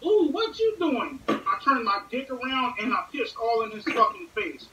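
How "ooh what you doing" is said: high, drawn-out mocking coo; mocking gay voice. Peeking stranger mocked, high slow coo. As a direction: coo it slowly to mock the peeper. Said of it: "he was like".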